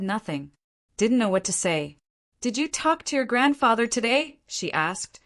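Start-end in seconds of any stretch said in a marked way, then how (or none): 2.4-4.4 cold suspicion. Acted. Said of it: "her voice suddenly cold and suspicious".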